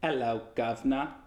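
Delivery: mock British greeting; British accent. Shown as a demonstration. Co-host playing along with the voiceover test, hammed British accent. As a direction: play at a British "governor" accent. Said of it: "was a British accent".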